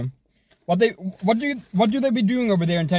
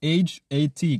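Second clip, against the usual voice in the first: spelled out slowly; slower than usual. Shown as a demonstration. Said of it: "How do you say that?".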